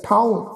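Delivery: ਠਾਉ with a nasalised aa; ਠਾਉ, thaaon through the nose; ਠਾਉ with the bindi as nasal sound; nasal vowel. Shown as a demonstration. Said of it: "ਕੰਨਾਂ ਉੱਪਰ ਬਿੰਦੀ ਸਹਿਤ".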